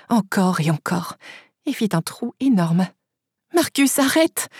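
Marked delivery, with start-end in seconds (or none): 3.5-4.5 higher-pitched, urgent order to stop; mild yell. A narrator's reading. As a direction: yell it with some restraint. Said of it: "hurlai-je en me libérant". (hurlement contenu)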